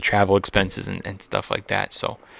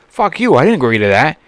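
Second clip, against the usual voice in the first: angry retort; 3 semitones higher, 5 dB louder than usual. Retold or imitated. Angry retort to phone company.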